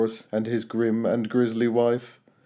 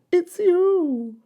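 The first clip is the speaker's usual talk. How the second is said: much higher amused reply; laughing duckbills. A narrator's reading. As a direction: tell him kindly, amused. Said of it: "they laughed and said".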